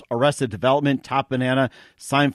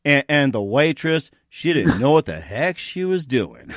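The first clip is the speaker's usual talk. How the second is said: mock Morgan Freeman. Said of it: "you're about as accurate as I am with it".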